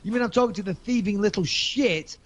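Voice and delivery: high, disbelieving echo; retold scoffing reply to the thief; incredulous retort. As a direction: throw his words back at him mockingly.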